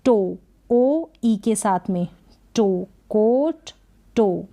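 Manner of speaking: "टो" slow with a long ओ; slow demo words. Shown as a demonstration. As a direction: draw out the ओ in "टो" and "कोट". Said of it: "फिर जैसे". (लंबा ओ खींचकर धीमे से)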